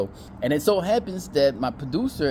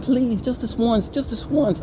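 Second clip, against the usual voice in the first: high, drawn-out pleading voice; imitation of desperate begging; mock begging; 10 semitones higher, slower than usual. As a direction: plead like a needy suitor, hammed up.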